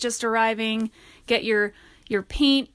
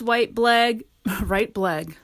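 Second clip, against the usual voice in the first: tongue-tied laugh; much slower than usual. Real, not acted. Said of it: "I can't even speak".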